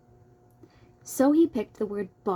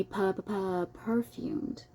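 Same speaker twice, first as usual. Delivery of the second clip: sputtering pu sounds; 7 dB quieter, slower than usual. Pretend. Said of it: "the way I'm doing the pu-, pu-, pu".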